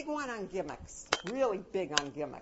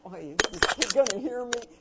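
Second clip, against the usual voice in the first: timid; 9 dB louder than usual. Retold or imitated. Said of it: "You cannot be".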